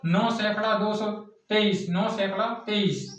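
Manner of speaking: "नौ सैकड़ा तेईस" read out as a counter-example; teacher's demo of a misread number; wrong reading demo. Shown as a demonstration. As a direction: show how not to read "नौ सैकड़ा तेईस". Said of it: "ऐसे नहीं, ऐसे पढ़ते नहीं".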